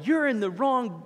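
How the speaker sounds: high-pitched mock scream, drawn out; retold screaming. Preacher imitates a boater screaming at swimmers, mock scream. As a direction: imitate an angry boater without fully yelling. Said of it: "he is screaming at them".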